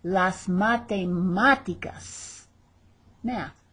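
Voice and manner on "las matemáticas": matemáticas slow, stress on the third "ma"; stress on the accented A. Shown as a demonstration. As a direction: draw out "matemáticas", leaning on the accented á. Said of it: "There's our accent over that A".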